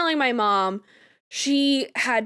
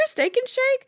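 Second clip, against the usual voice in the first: incredulous; 13 semitones higher than usual. Retold or imitated. Mom doubts the choice.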